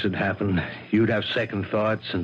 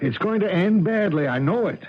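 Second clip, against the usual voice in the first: fearful outburst; 9 semitones higher than usual. Acted. Anxious husband fears bad ending.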